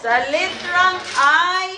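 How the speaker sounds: sing-out, drawn-out ball calls; measured caller's cadence with stretched numbers; bingo caller. Real, not acted. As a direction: announce each letter and number to the room.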